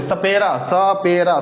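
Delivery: सपेरा with a clear dental स at the start; demo word. Shown as a demonstration. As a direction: say सपेरा twice, stressing the स. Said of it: "स, स बोलिए".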